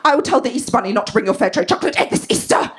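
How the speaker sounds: imitated mum's threat, speeding up; Linda. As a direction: warn the children as a mock-strict mum. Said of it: "And then she goes".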